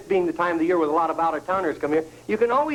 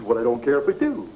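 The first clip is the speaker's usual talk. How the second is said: deep drawling seagull voice; 8 semitones lower than usual. Acted. Seagull accepts the beer.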